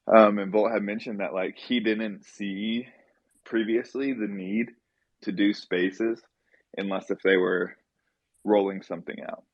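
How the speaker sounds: winded from running up stairs; out of breath. Real, not acted. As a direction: talk while still out of breath. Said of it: "I'm a little out of breath".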